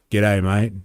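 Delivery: lightly voiced deadpan G'day, flat-faced and casual; a hint of a deadpan Australian mate; deadpan Aussie greeting. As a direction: greet like a local without a flicker.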